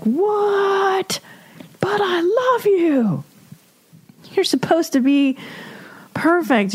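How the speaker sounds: high hurt disbelief; whiny betrayed girlfriend voice; shocked young girlfriend. Retold or imitated. Girlfriend voicing shocked younger self.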